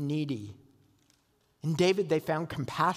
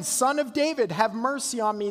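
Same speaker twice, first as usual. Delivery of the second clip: raised, urgent plea for mercy; retold shout; 3 semitones higher, 3 dB louder than usual. Preacher voicing the blind man crying to Jesus, raised plea. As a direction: call out loud like a desperate beggar. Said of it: "He shouted again".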